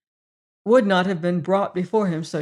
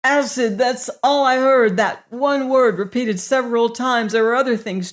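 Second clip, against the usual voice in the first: high, louder shaken explanation; frightened; 5 semitones higher, 5 dB louder than usual. A narrator's reading. Prisoner explaining to the warden, still frightened. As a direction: still shaking with fear.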